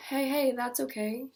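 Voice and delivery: slow, gentle reassurance; comforting. Acted. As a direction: soothe her slowly. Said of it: "He did his best to comfort me".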